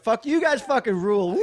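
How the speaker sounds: put-on drunk cheer. Comic imitating drunk self onstage.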